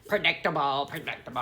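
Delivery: half-hearted go at a New Jersey accent; attempted New Jersey accent. Shown as a demonstration. Southerner retrying the accent that slipped out, faint New Jersey attempt. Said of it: "I can't do it now".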